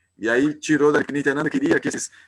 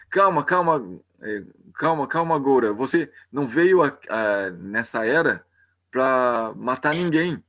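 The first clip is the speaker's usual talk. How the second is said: calming plea. Retold or imitated. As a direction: soothe a furious friend, begging him to stop. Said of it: "ele falou assim".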